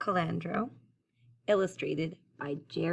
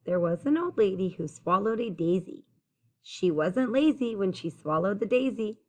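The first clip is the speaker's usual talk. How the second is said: clear, lilting rhymed storytelling; picture-book read-aloud; 3 dB louder than usual. A narrator's reading. Reader telling children about the old lady, lilting storytime read-aloud. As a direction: read the rhyme out to young listeners.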